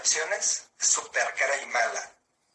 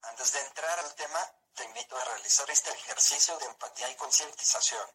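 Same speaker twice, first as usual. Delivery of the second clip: synthesized voice. Real, not acted. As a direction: computer voice with even robotic pacing. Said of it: "esta es una voz sintetizada".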